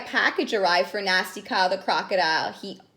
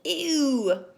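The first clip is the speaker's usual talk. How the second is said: disgusted complaint; 3 semitones higher, 3 dB louder, much slower than usual. Acted. Kyle complains soup cold.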